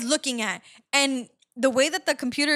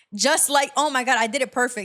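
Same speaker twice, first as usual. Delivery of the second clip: plain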